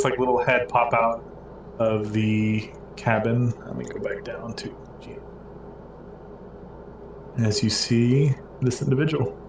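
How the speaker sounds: normal talking voice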